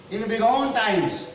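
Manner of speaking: slow, high verse reading; poem recitation. Real, not acted. Teacher opens last stanza for students, slow recitation.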